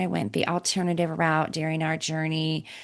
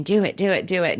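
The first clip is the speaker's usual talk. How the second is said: devil on shoulder; 3 semitones higher, 4 dB louder, faster than usual. Retold or imitated. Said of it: "little devil sitting on your shoulder".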